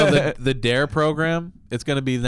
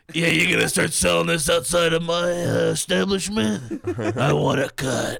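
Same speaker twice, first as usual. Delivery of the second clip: smoker voice; 3 semitones higher than usual. Acted. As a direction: play a scummy boss demanding her cut. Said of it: "Why do you sound like a, like a cigarette smoker?".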